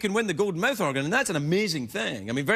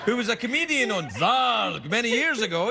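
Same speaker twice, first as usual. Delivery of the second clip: high, shouted excited alien; 9 semitones higher, slower than usual. Pretend. Host imagining aliens arriving on a star, high shouted alien. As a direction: yell it like a thrilled alien landing. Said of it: "if aliens came to this planet and go".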